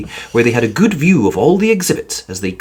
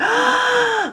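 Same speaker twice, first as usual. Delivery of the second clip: excited gasp. A narrator's reading. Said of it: "chorused Jonathan and Judy excitedly".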